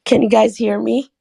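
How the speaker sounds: hoarse from a sore throat. Real, not acted. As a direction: speak through a sore throat after the flu. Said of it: "I apologize for my voice. I have a sore throat".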